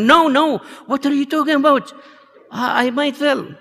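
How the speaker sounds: high-pitched, hurried objection; alarmed protest. Acted. Paralytic man answering his friends' plan, alarmed protest. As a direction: balk at the plan, voice jumping up.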